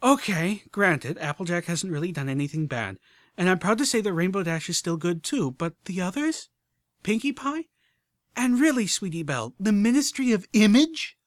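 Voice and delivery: loud, high incredulous rant; spitting angry. Acted. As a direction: build to an outraged shout. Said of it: "sounded like she had spit her bit".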